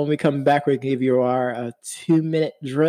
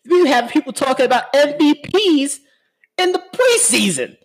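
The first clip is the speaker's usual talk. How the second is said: incredulous high voice; 10 semitones higher than usual. Real, not acted. Mock outrage at preseason hype.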